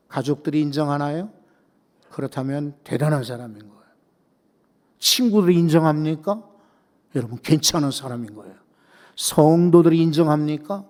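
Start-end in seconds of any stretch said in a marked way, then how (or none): none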